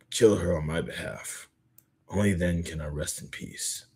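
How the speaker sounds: quiet, restrained in-character reading; solemn dialogue reading. Acted. Dying teacher making a last request, quiet and solemn. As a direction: let phrases sink softly at their ends.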